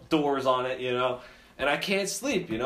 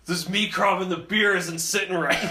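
friend's queasy voice; 4 semitones higher, 4 dB louder than usual. Retold or imitated. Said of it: "So Christian's like".

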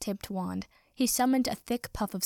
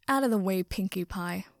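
snarling. Acted. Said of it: "Katsuki snarled".

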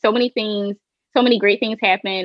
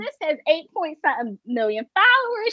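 fangirl excitement; 8 semitones higher than usual. Retold or imitated. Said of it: "I'm like".

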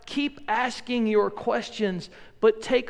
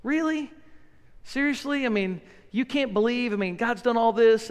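mock exasperation; 2 semitones higher than usual. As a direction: scoff at a doubter who should know better. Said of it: "the way we often deal with doubters".

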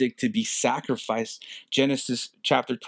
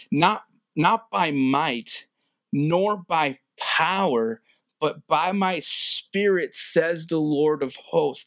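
slow solemn voice of the Lord; 3 semitones higher, slower than usual. Acted. Preacher voicing the Lord's words.

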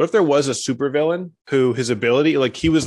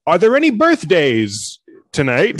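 cheesy improv host; 4 semitones higher, 4 dB louder, slower than usual. Pretend.

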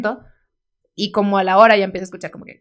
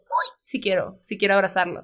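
tender coo; 4 dB quieter than usual. Retold or imitated. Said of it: "Eso sí digo".

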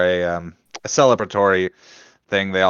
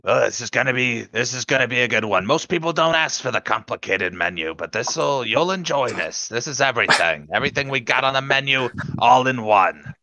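server voice; 3 semitones higher than usual. Acted. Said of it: "a different server".

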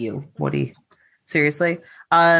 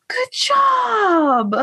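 condescending. Pretend. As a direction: talk down to them with fake praise. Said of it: "condescending ass tone".

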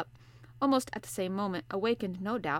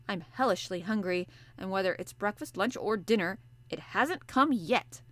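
the harpooner complaining about breakfast; hungry harpooner; 3 dB louder than usual. Acted. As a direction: grumble the hunger out. Ned Land voiced.

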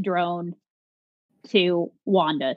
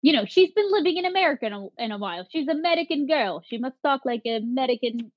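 higher-pitched, put-on Russian accent; bad Russian accent; 4 semitones higher, faster than usual. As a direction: badly fake a Russian accent. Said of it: "That was bad Russian".

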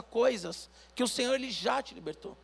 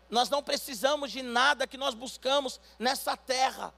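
ordinary talk

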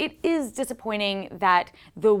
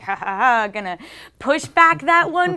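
scheming villain; 7 semitones higher, 5 dB louder than usual. Pretend. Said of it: "Kevin Feige at Marvel is like".

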